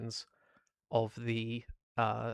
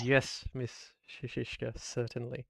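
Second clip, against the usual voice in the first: mechanical voice through gritted teeth. Acted. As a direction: force out polite words like a seething machine. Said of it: "through gritted teeth and a mechanical voice".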